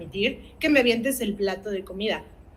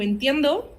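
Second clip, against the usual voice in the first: calm validating parent. Shown as a demonstration. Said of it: "voy a saber decirle a mi hijo".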